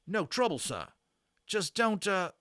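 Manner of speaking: put-on high, loud old soldier griping about the damage; a rattled army corporal complaining to his officer; British army corporal. Corporal grumbling to young Omri about ruined weapons, loud and indignant.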